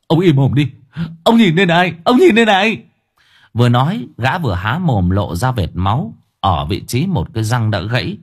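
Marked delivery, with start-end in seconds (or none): 0.1-2.8 louder, rising enraged shout; furious. Acted. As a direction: make him look at the damage. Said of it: "mắt long sòng sọc". (quát tức giận)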